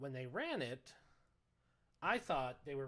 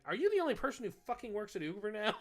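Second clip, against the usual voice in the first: higher, louder exasperated yell; losing it, yelling; 7 semitones higher, 8 dB louder than usual. Retold or imitated. Fed-up caller yelling at the Uber agent, loud and higher. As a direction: finally snap and let it out. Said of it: "finally I lost it".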